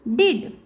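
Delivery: डिड with ड at both ends. Shown as a demonstration. Teacher showing learners the D sound, डिड with clear ड. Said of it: "ड के रूप में किया जाता है".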